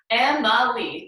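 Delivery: "Emma Lee" in three even beats; split into syllables. Shown as a demonstration. Teacher explaining an action per syllable, "Emma Lee" in separate beats. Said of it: "For every syllable in my name".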